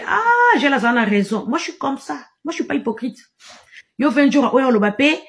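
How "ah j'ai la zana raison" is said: indignant shout. Real, not acted. Angry rant, shouting a claim.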